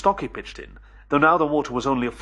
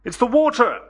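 high, loud call over noise; raised voice; 11 semitones higher, 6 dB louder than usual. Acted. Narrator answering Billy above the monster's roar, calling high and loud. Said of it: "raising my voice above the roar of the monster".

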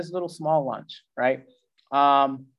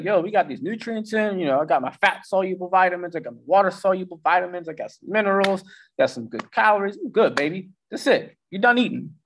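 higher, pleased and laid-back; satisfied brain voice; 5 semitones higher than usual. Retold or imitated. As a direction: play your well-fed brain, content and easy. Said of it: "your brain's like".

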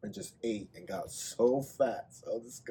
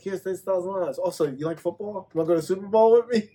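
high-pitched, building to a louder, faster invitation; imitated excited offer; 8 semitones higher, 7 dB louder than usual. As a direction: play the giver springing a big surprise. Voicing the giver's surprise offer.

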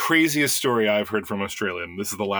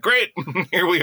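higher, louder mock cheer; sarcastic; 8 semitones higher, 4 dB louder than usual. Tourist greeted by a gator, mock cheerful sarcasm. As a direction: fake cheer, dripping sarcasm. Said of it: "You're like".

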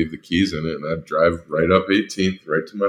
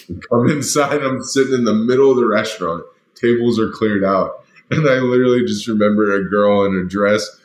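high-pitched, laughing storytelling; tickled, raised voice; amused, animated telling; 4 semitones higher, 4 dB louder than usual. Real, not acted. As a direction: tell it high and lively, on the edge of laughter. Amused retelling of stunned diners, laughing.

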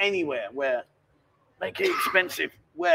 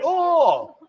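imitating her oh; 9 semitones higher, 6 dB louder than usual. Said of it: "you went".

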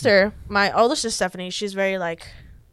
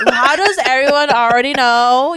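incredulous; 5 semitones higher, 7 dB louder than usual. Retold or imitated. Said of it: "I'm like".

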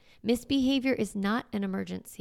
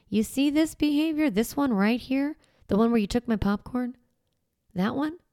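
higher, pinning down the behavior; pointed callout; 5 semitones higher than usual. Retold or imitated. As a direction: point at the one thing the child did. Parent calling out child's behavior.

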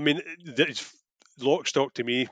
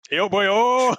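excited yelp; 8 semitones higher, 8 dB louder than usual. Real, not acted. Reacting to Welsh joke.

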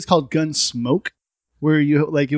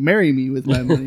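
villain quote; 3 semitones lower than usual. Retold or imitated. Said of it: "it sounded like he was saying".

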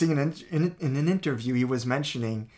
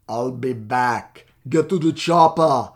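put-on Austrian accent, "get to the chopper" much louder; Schwarzenegger Austrian accent; 12 dB louder, slower than usual. Quoting the Austrian star's lines in his accent, building to a shout. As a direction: ham up the Austrian action-hero accent. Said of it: "weird Austrian accent".

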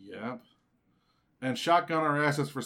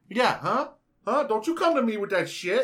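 louder, higher, squaring up to a fight; mock challenge, loud and high; mock confrontation; 7 semitones higher, 6 dB louder than usual. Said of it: "acting out the text fight".

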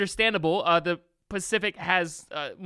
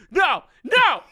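mock dismissive; 9 semitones higher, 7 dB louder, much slower than usual. Mock rejecting the Arctic Ocean.

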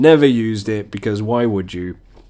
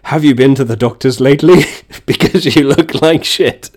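mock seductive punchline; 3 semitones higher, 5 dB louder than usual. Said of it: "change that one and say".

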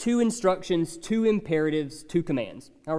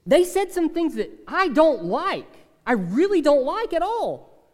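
mock objector; 5 semitones higher than usual. Imagined complaining listener.

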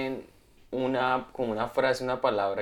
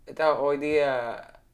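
Peruvian accent attempt; 2 semitones higher than usual. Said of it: "pero en acento peruano".

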